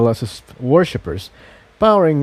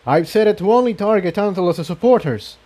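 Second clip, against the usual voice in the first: Jigsaw explaining; 7 semitones higher, faster than usual. Acted.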